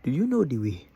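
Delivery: "Do you know the way?" breathed loud without voice; loud breathy mimic of the line; mimicked accent. Shown as a demonstration. Repeating the YouTuber's accent, a hoarse whisper. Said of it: "I wanna copy it".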